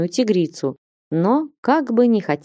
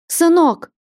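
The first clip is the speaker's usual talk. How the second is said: much higher, louder wail; desperate cry; 10 semitones higher, 4 dB louder than usual. A narrator's reading. Mother wails after her vanished son, high and loud. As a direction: howl after him in despair. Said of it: "отчаянно взвыв".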